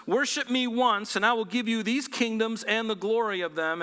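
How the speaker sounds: a hint of a tempter's sales pitch; Satan tempting. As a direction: pitch the bargain high, as a tempter would. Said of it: "So Satan was in, in essence saying".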